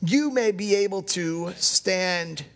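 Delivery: slow, deliberate reading with weighty pauses; solemn scripture reading. Real, not acted. Pastor reading Ephesians to the congregation, solemn scripture reading. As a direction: read it out phrase by phrase, measured.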